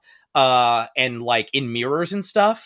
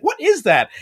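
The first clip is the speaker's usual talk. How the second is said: frightened Dorothy; 12 semitones higher, 5 dB louder than usual. Retold or imitated. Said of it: "And Dorothy's like".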